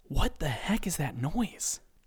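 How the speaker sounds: hushed whisper, under the breath. Narrator reading one employee's question to another as the founder enters: whisper. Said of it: "Steve leans over and whispers to Dennis".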